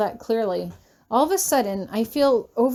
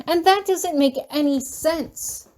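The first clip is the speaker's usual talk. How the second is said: slow, higher-pitched yell; 6 semitones higher than usual. A narrator's reading. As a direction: bite out each word in frustration. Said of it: "I yell".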